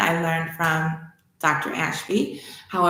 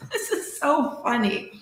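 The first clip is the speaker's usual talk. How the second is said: laughing; 6 semitones higher than usual. Real, not acted. Laughs at own story.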